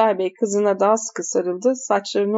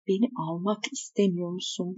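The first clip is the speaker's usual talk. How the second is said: korkunç cümle; 9 dB quieter than usual. Shown as a demonstration. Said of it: "Cümlenin korkunçluğu".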